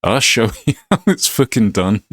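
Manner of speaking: put-on Glaswegian trainer; Scottish accent. Master answers the novice, Scottish accent. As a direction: act a cocky Scottish fighting master. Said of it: "Sorry about the Scottish accent".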